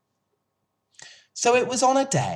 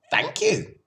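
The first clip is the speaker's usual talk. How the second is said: high but steadier single thank you; a calmer goose voice; gander's thanks. A narrator's reading. Gander thanking Charlotte, steadier honk. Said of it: "said the gander".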